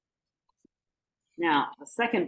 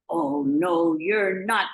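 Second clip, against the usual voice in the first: loud troll refusal; 5 dB louder, much slower than usual. Acted.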